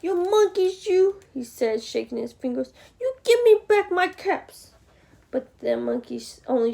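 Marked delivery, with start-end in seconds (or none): 0.0-1.2 higher-pitched scolding of the monkeys; mild anger. A narrator's reading. Peddler scolding monkeys for his caps, mild anger. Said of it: "They made the peddler angry". 3.0-4.7 indignant, higher-pitched demand; mild anger. A narrator's reading. Peddler demanding caps back from monkeys, mild anger. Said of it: "They made the peddler angry".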